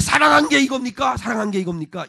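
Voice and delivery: indignant protest, starting high and loud, then easing; snapped retort. Acted. People challenging God's love, snapped and indignant. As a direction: throw the question back, stung and cynical. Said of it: "질문을 쏘아붙입니다".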